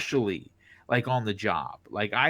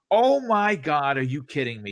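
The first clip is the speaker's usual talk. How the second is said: amazed reaction; 2 semitones higher, 3 dB louder than usual. Retold or imitated. Reacting to the plus one offer.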